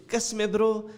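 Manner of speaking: playful northern English imitation; imitated Bradford friend. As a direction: mimic a friend's Bradford lingo. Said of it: "he always says".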